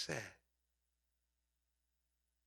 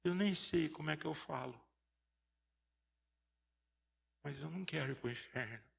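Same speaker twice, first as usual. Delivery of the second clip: tearful prayer. Retold or imitated. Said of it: "E ele chorando".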